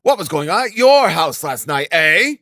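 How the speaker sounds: high, hectoring tirade; angry berating. A narrator's reading. Assistant superintendent berating the landlady, furious. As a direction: scold her like an outraged official.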